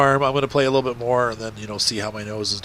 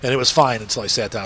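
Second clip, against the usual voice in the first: stuffy, congested voice; talking through a blocked nose. Real, not acted. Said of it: "you can hear from my voice".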